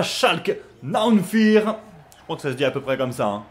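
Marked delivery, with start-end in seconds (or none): 0.0-1.8 put-on drawn-out German club name, amateur accent; attempted German accent. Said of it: "ne jugez pas mon accent, euh, allemand".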